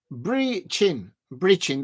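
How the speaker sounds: "Breaching" with a long EE like breach; "Breaching" said firmly as breach-ing. Shown as a demonstration. Deciding on her own version, "Breaching" with a long EE. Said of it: "That's how I'm gonna say it".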